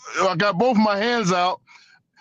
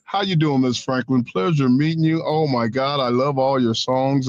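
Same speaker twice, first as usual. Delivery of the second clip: promo voice switched off, lower and everyday; Hulk Hogan off camera; 5 semitones lower than usual. Retold or imitated. Wrestler greeting a singer after "cut", low-key politeness. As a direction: imitate a wrestler dropping the act to greet a star. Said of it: "turn that thing on and off so quick".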